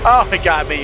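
sudden startled cry. Real, not acted. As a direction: caught off guard, loud. Ghost catches player.

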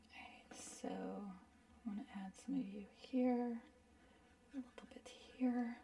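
put-on soft, hushed Gru accent muttered to the paint; a lightly done Gru voice, hushed. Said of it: "that weird Minions Gru accent".

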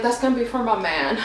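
giggling through the words; laughing. Retold or imitated. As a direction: laugh while you say it. Laughs while retelling thought.

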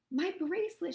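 lightly voiced startled princess; gasped, upset. A narrator's reading. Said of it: "she gasped".

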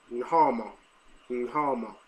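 Taiwanese Mandarin accent, lightly done. Shown as a demonstration. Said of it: "That's the Taiwanese accent".

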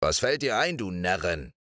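grumbling crossly. Acted. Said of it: "brummte unwirsch".

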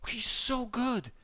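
hushed admiring whisper. Real, not acted. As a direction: breathe it in admiration. Admiring aside about teammate.

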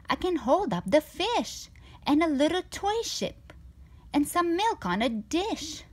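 a show-off cat proud of every trick; boastful cat. Acted.

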